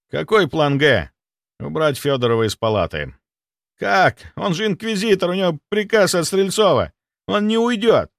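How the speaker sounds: high, anxious middle-aged doctor voice; panicking clinic head. Acted. Clinic head panicking to the doctor, high and anxious. Somov doubts the plan.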